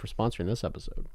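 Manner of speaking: whispered sponsor thanks; soft unvoiced aside. Real, not acted. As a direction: breathe it out with no voice.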